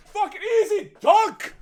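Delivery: loud, high gloating yell; triumphant cheer. Real, not acted. Host celebrating his sponsor plug, loud and gloating. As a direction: crow about nailing it.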